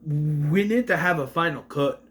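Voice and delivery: lightly imitated Scottish teacher; mock Scottish. Josh's teacher advising him on the final cut, mock Scottish accent. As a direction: attempt a slight Scottish accent. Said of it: "who's just randomly Scottish".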